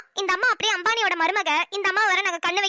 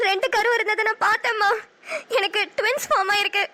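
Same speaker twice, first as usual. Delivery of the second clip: tearful joy. Acted. Happy tears over twins news.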